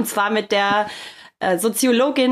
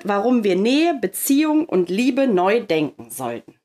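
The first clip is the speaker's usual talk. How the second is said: slow motion; slower than usual. Shown as a demonstration. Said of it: "ich soll den Titel ganz langsam sagen".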